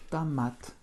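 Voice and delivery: "Томат" with weight on the last syllable; stress on final A. Shown as a demonstration. Teacher spelling out the word, "Томат" stressed on its final A. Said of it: "L'accent tonique tombe sur le A final".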